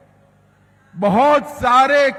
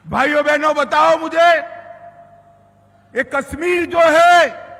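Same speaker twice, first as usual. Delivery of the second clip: booming political rally speech; 4 semitones higher, faster than usual. Real, not acted. Rally crowd address, raised voice.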